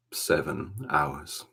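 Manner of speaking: "Seven hours" drawn out slowly; slow emphatic repeat. Real, not acted. Repeats the makeup time for emphasis.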